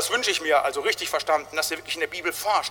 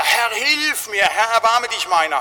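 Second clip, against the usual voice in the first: loud, slow cry for help; desperate cry; 4 semitones higher, 4 dB louder, slower than usual. Retold or imitated. Peter sinking in the lake, crying to the Lord. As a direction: shout for rescue while going under. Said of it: "Da schreit er".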